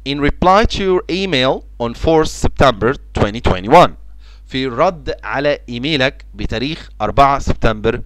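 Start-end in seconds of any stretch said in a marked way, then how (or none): 0.1-3.9 very slow, clear example sentence; slow dictation. Shown as a demonstration. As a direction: read it slowly for the class. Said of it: "الكلمة اللي بعد كده reply".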